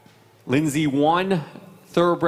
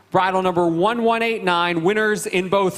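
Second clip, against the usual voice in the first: announcer reveal; 4 semitones higher than usual. Acted. Announcing the champion.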